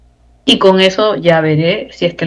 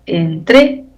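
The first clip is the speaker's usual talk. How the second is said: "Entrégale" broken into syllables, stress on TRÉ. Shown as a demonstration. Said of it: "porque es esdrújula".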